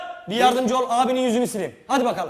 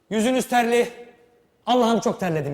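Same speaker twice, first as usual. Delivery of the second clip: louder director feeding a line; louder prompt shouted across the set; line fed loud; 3 semitones higher, 5 dB louder than usual. Shown as a demonstration. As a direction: call the line out to the actor. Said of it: "ben size buradan bağıracağım".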